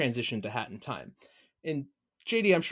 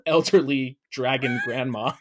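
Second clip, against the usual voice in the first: laughing; 4 dB louder than usual. Real, not acted. Laughing through own pitch.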